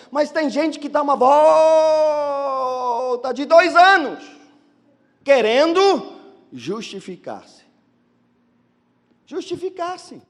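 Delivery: ordinary talk, nothing marked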